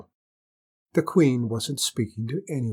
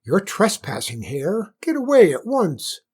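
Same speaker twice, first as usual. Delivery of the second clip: rising to a much higher, louder furious command; angry order; 7 semitones higher, 4 dB louder than usual. Acted. Queen ordering the trespassing hare away, angry. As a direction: chase the hare off like an outraged queen.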